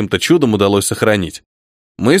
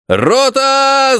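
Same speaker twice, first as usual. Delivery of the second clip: higher, drawn-out call to the company; shouted command; 10 semitones higher than usual. A narrator's reading. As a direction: call them to order. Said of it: "закричал Голицын".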